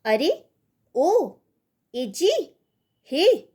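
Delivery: high, loud calls to get attention; calling out. Shown as a demonstration. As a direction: call across to someone. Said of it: "संबोधन के मनोभाव".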